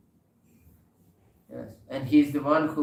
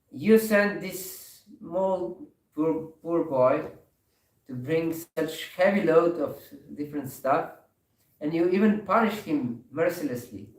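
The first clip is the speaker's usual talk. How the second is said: upset; 5 semitones higher, 5 dB louder than usual. Retold or imitated. Wife scolds husband over the beaten boy, upset and louder. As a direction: scold him for the poor boy's beating. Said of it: "she was very upset".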